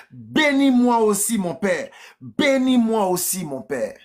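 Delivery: understated cry of a wronged son; mild bitter cry. Acted. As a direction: plead upward, let the last words fall. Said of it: "il poussa de forts cris pleins d'amertume".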